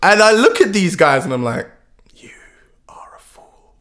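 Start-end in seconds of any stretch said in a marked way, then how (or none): 2.2-3.7 breathless mock whisper. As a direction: hiss the verdict under your breath. Inner verdict on naive founders.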